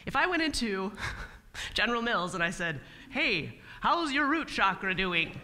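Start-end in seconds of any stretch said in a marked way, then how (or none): 3.1-5.4 wrong pitch to a client. Retold or imitated. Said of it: "No, that would not work very well".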